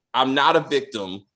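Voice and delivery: low, even, mildly stoic quote. Retold or imitated. Imitating Angel's statement to the detective, understated stoic.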